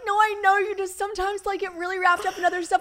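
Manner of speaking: high-pitched tearful reassurance, acted out; hammed-up weepy voice; mock crying. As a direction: imitate replying through tears. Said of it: "having a crying fight".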